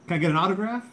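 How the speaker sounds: high, loud star-struck fan voice; Duncan impression. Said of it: "that's my impression".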